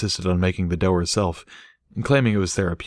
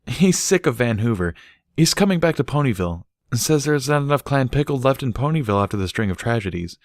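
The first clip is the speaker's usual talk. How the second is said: slightly higher mare voice, chatty; lightly voiced Barry; 5 semitones higher than usual. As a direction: pass on the news casually. Barry explains uncle's return.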